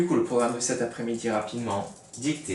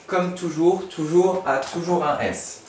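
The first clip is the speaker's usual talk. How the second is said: toujours said higher and louder; stress on toujours; 6 semitones higher, 4 dB louder, slower than usual. Shown as a demonstration. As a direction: lean on "toujours un S" slowly. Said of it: "teacher stressing the spelling".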